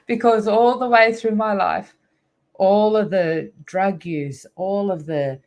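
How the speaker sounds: high teary laugh breaking into the words; real emotion welling up, voice lifted; laughing through tears. Real, not acted. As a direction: speak through joyful tears. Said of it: "I'm gonna cry again".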